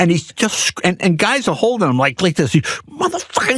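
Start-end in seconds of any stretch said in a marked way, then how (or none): 2.6-3.6 high-pitched mock gangster yell; imitated screaming. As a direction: hurl it like a raging gangster, imitated. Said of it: "he's just screaming at the guy".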